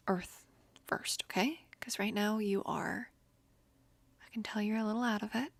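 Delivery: hushed, soothing whisper to calm a friend. Acted. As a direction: whisper gently, keep them grounded. Comforting a stressed friend.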